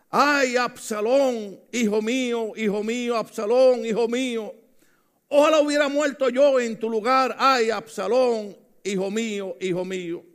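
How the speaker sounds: a touch of a father's sob over his son; weeping lament. Retold or imitated. King David mourning his dead son Absalón, a mild weeping lament. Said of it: "lloraba y decía".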